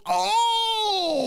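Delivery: a sharp, very high cry of recognition; a startled clerk realizing who is calling; surprised gasp. Retold or imitated. Desk clerk recognizing the caller, surprised high cry. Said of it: "She goes".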